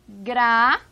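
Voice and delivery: gratuito cut into gra, tui, to; long pauses between gra, TUI and to; syllable by syllable. Shown as a demonstration. Teacher splits gratuito for the class, syllable by syllable. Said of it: "a gente tem aqui".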